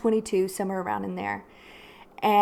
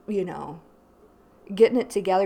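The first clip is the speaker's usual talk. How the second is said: ordinary talk, nothing marked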